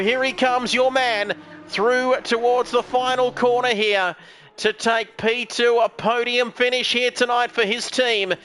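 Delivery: projected, measured play-by-play; live race commentary. Real, not acted. Commentator calls your man towards a podium finish, live race commentary. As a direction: bring the runner-up through the last corner. Calls second place home.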